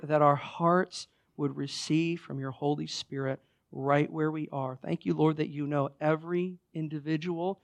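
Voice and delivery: measured, reverent prayer. Real, not acted. Pastor prays for everyone listening, measured reverent prayer.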